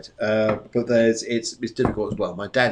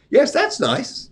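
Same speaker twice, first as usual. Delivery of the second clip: high, slow and pleased; 13 semitones higher, much slower than usual. Real, not acted. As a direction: savour it like a compliment. Pleased reply to viewer's colour.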